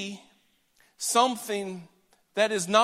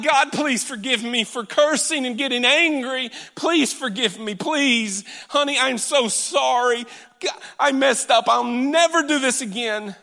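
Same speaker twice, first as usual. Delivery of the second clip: frantic pleading apology; 4 semitones higher than usual. Retold or imitated. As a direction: beg God in a rush of guilt. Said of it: "repentance in its purest form is not".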